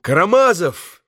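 high, loud cry of a name; boy calling out. A narrator's reading. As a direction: call out urgently as a boy. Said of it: "крикнул Коля".

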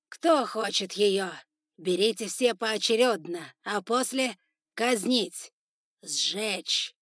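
loud, slow and menacing; cruel sentence. Acted. Spider lord sentencing the girl before his warriors, loud and cruel. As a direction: relish the cruelty.

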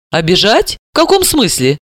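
rising puzzled question; surprised. Acted. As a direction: sound genuinely taken aback. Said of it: "удивилась Далила".

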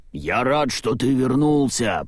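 usual speaking voice

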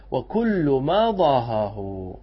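very slow intoned verse line; slow chant of the poem line; verse recitation. Acted. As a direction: stretch the verse words out. Quoting the verse.

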